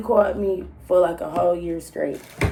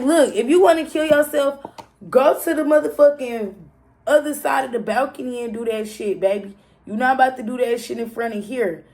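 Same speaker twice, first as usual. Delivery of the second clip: high, loud exasperated scolding; angry telling-off; 4 semitones higher, 4 dB louder than usual. Retold or imitated. Telling the ex off from the balcony, high and loud. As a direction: tell him off sharply.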